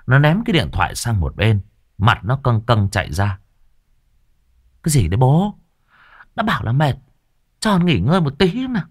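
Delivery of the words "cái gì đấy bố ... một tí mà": put-on sulky teen whine. Sulky daughter answering father.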